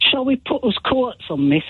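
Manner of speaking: put-on a child's question in Nottingham accent; Nottingham children's dialect. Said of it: "until I understood that courts were coats".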